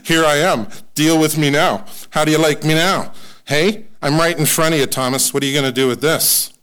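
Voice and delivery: bold, mock swagger offer; Jesus challenging Thomas. Jesus showing up to doubting Thomas, playful swagger. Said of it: "He says".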